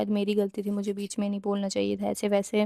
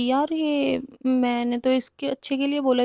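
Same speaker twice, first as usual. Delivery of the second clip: shocked disbelief; 3 semitones higher than usual. Retold or imitated. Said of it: "मैं shock".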